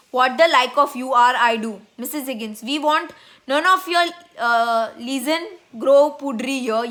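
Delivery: slow, measured dramatic reading; reading a play aloud. Acted. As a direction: read the scene like a performed text. Reads the play's dialogue aloud. (નાટક વાંચતા હોય એમ, ધીમેથી)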